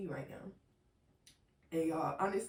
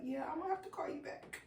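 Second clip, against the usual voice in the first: high, thin excuse; re-enacted strained excuse; 12 semitones higher, 4 dB quieter, faster than usual. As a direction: act out squeaking an excuse to hang up. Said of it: "let me see if I can recreate it".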